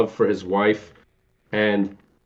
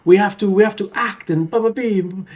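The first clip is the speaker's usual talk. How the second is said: mimicking Gomez; 10 semitones higher than usual. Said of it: "like, he, like".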